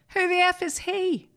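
high, loud indignant outburst, hammed up; mock outraged producer. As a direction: play the offended producer storming off. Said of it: "George went".

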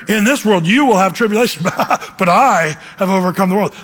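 mock gloating, laughing after tribulation; old mocking reading. Imitating how he read the verse as a kid, mock gloating. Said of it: "That's the way I used to read it".

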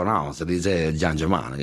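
low, slow, gentle imitated correction; heavenly smile. The actor correcting the TV host, heavenly smile in the voice. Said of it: "con una sonrisa como bajada del cielo".

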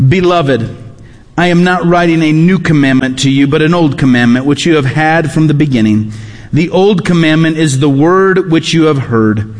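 measured Bible reading, voice sinking at phrase ends; scripture reading. Acted. Pastor reads the word of the Lord to the congregation, scripture reading. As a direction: read it out as solemn scripture.

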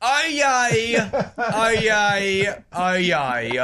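unexcited, falling town crier cry; boring crier call. Pretend. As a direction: call it out dully in your own New Zealand voice. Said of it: "Don't sound so boring".

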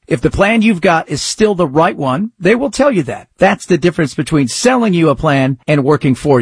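brisk host-read sponsor pitch; upbeat promotional read. Acted. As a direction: sell it like a radio ad.

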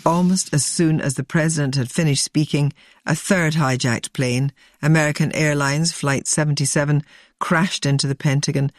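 measured scripted news narration; documentary narration. A narrator's reading. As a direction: read it as a sober documentary link. Presenter reads scripted narration.

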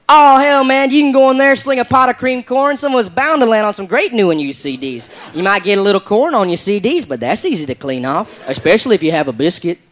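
put-on easygoing good old boy from the South; southern redneck drawl. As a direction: lay on the laid-back redneck twang. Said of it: "I like the way this guy talks".

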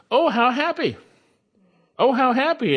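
the preacher proclaims the inspired author's words with high emphasis; emphatic exclamation. Shown as a demonstration. "Oh, how happy" lifted high each time. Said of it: "is actually emphatic".

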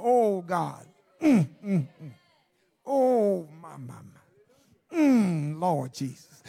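low, hushed moaning prayer, drawn out on the my; soft demonstrated moaning. Shown as a demonstration. Preacher demonstrating how to moan alone to God in the closet, hushed moaning. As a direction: moan to God under the breath, without real words. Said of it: "I haven't really uttered out any words".

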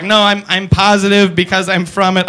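stiff robotic alien voice. Retold or imitated. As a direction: say it like a stilted robot. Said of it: "I don't know why he's a robot".

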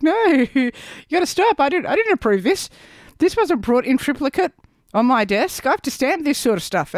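ऊँची आवाज़ में हँसता हुआ नकली अफ़सर; अफ़सर बनकर मज़ाक में डाँटो, हँसी के साथ; mock bureaucrat. Mock bureaucrat scolding aging celebrities.

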